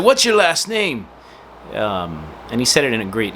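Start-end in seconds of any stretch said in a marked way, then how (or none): 0.0-1.1 imitating an Italian tourist's accent, higher; a light Italian accent on the question. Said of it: "he had an Italian accent".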